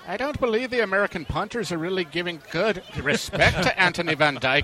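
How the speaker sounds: a light hint of an Irish accent, teasing the punters; hammed-up Irish brogue, barely put on; mock Irish accent. Commentator teasing co-hosts in a mild mock Irish accent. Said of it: "in my best Irish accent".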